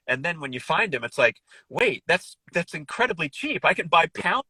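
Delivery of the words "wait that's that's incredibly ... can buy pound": higher-pitched acted double take; mildly amazed, pitch lifted; pleasantly surprised. Shopper reacting to cheap liver, mock surprise.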